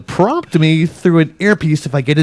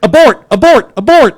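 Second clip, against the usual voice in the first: loud high call with a laugh; laughing shout; 9 semitones higher, 9 dB louder, faster than usual. Acted. Repeats panicked abort call.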